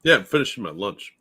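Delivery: chewing while talking; talking through a bite of salad; mouth full. Real, not acted. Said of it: "he's chewing".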